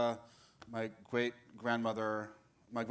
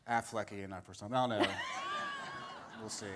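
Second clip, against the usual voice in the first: laughing; faster than usual. Real, not acted. Laughing at own joke.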